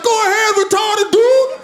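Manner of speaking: thugs' voice. Retold or imitated. Thugs voiced letting him through.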